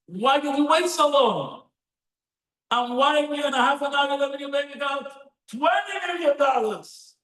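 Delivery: high-pitched indignant protest; upset son. Retold or imitated. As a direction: exclaim it high, as if affronted. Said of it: "the son gets upset".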